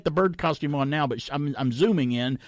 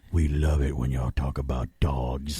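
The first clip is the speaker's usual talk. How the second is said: lightly voiced fans; 9 semitones lower than usual. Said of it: "sent me messages going".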